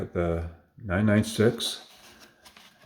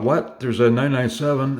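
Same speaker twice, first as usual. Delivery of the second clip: retold surprise; 5 semitones higher, 4 dB louder than usual. Retold finding the 997.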